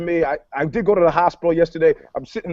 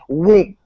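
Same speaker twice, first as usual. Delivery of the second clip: imitated whoosh; 4 dB louder than usual. Imitates cops suddenly appearing behind.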